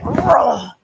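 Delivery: mock straining groan; imitated effort grunt. Wife imitating husband's effortless twist, mock grunt. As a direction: grunt as if twisting something open. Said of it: "he just, like".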